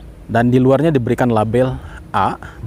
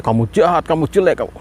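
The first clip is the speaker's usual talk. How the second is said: scornful, dismissive insult, a bit higher; mildly harsh insults; 4 semitones higher than usual. Shown as a demonstration. Demonstrating the insults to the bad jar, mildly scornful. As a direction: sneer the insults at it. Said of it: "bedanya jauh sekali".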